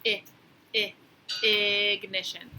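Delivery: teacher sounding out a letter. Shown as a demonstration. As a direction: stretch the first sound. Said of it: "What if I said".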